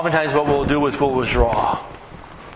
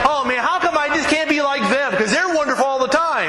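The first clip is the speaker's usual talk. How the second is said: much higher, whiny envy; envious whine; 10 semitones higher than usual. Retold or imitated. Preacher voicing an envious couple in the car, much higher whine. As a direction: moan about others' perfect lives.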